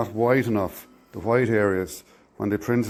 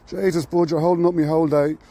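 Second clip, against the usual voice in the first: a hint of a Dublin accent, raised; lightly voiced Dublin workman; 5 semitones higher than usual. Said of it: "me trying to do a Dublin accent".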